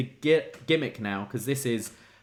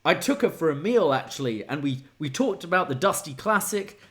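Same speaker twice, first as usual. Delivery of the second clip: lightly voiced, somewhat higher storyteller; mimicking Jensen; 4 semitones higher than usual. Host voicing Jensen recounting his date, lightly higher. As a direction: play the proud guy recounting the date. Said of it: "And went".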